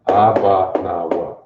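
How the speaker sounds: "Abba Nawa" slowly as AH-bah nah-WAH; Hebrew recitation. Shown as a demonstration. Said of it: "The Lord's Prayer".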